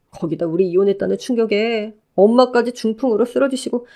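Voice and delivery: lightly voiced ex-husband, eager and pleading; a hint of a clingy ex overjoyed to see her. Ex-husband calling out to his ex-wife, lightly voiced eager pleading.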